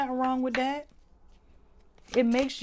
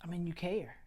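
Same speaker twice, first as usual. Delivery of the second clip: holding back tears; 6 dB quieter than usual. Real, not acted. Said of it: "I'm really about to cry right now".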